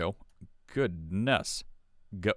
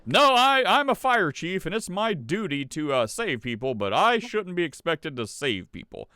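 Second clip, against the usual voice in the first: mock fire chief; 4 semitones higher than usual. Host parodying a fire chief's reply, light mock protest. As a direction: lightly mimic an indignant official.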